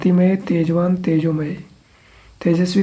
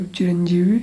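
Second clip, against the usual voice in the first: whisper. Real, not acted. Whispered repeat while memorising.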